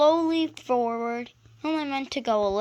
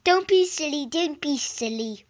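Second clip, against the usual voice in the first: higher, rhythmic puffing; puffing chug; 6 semitones higher, 7 dB louder than usual. A narrator's reading. Edward pushing Gordon along, puffing rhythmically. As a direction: chug it like a working engine. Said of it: "puffed Edward".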